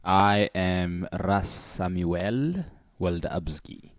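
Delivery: name said slowly in African accent; slow, careful African accent name. Shown as a demonstration. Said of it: "pronounce my name correctly with the African accent".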